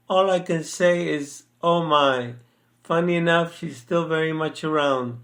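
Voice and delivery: measured recital of a personal poem; poem reading. Acted. Son recites a poem about the day mom got shot, measured poem reading. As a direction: read it as homespun narrative verse, line by line.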